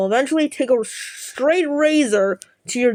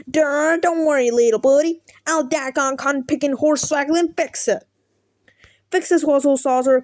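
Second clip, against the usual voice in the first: put-on southern accent; 3 semitones higher than usual. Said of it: "talks in the most grating southern accent".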